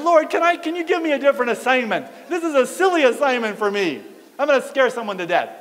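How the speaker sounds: high, loud comic begging; worked-up retold objection; pleading protest. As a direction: beg the Lord to let you off. Begs God for another assignment.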